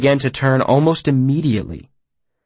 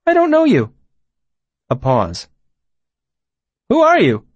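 high, odd, blunt hermit; a strange childlike stranger; eccentric voice; 10 semitones higher than usual. Acted. Puppet's voice.

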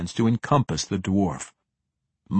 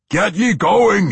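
loud, high, slow howl; 10 semitones higher, 8 dB louder, slower than usual. A narrator's reading. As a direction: howl it while straining. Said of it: "he howled".

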